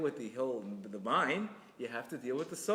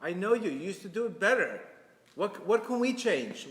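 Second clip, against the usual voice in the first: encouraging; 4 semitones higher, 4 dB louder than usual. Shown as a demonstration.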